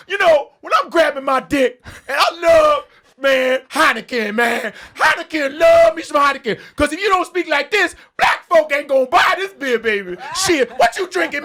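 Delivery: over-the-top stereotype ad read. Acted. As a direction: parody a pushy beer commercial voice. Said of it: "to do the black thing".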